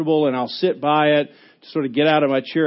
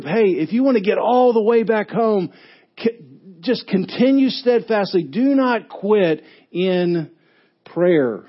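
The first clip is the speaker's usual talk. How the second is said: raised, urgent, slowing at the end; mild coach yell; 4 semitones higher than usual. Retold or imitated. Paul yelling to his group to keep praying, raised. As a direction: urge the group on, drawing out the last words. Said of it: "He's yelling to his group".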